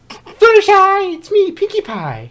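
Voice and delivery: high, loud, slow call of Fluttershy. Acted. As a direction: call her name through the door. Calling Fluttershy at her door.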